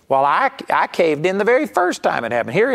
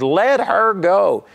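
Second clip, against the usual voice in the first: louder, slow, drawn-out order; slow yelled command; 5 semitones higher, 4 dB louder, much slower than usual. Retold or imitated. Smith yells at the women, slow loud command. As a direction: lay down the final command. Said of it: "he yelled at those women".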